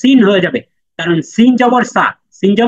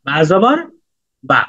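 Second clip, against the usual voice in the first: slow demo; slower than usual. Shown as a demonstration. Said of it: "এই same process follow করে এটা উচ্চারণ করেন".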